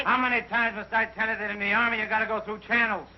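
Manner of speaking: high-pitched sergeant's reprimand; exasperated scolding. Acted. Sergeant tells private to go through channels, exasperated.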